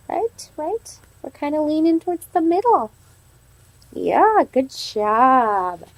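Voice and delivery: expressive read-aloud for a class; reading to children. Acted. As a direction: tell the story to little kids. Teacher reads story aloud to class.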